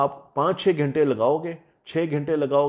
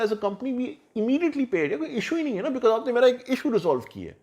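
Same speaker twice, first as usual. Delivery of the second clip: higher-pitched, animated pleading of a case; insistent client; 5 semitones higher than usual. Acted. Client telling a freelancer he needs only two hours, insistent. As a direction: argue it in a raised pitch, pressing the point. Voices a client arguing for short hire.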